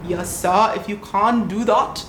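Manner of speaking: South African accent slipping into German; badly faked, German-sounding South African accent; botched South African accent. Shown as a demonstration. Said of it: "No, that's German".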